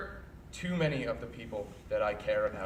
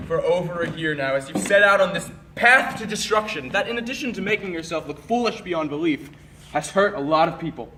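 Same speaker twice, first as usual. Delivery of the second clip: loud, raised-pitch accusation; angry confrontation; 3 semitones higher, 10 dB louder than usual. Acted. Confronting a friend on a path to destruction, angry. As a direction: let the anger burst out, hitting words hard.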